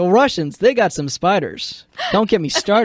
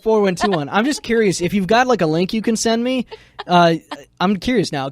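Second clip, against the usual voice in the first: ordinary delivery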